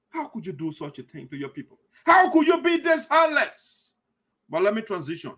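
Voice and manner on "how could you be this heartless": outraged disbelief. Real, not acted. Outraged question to corrupt leader.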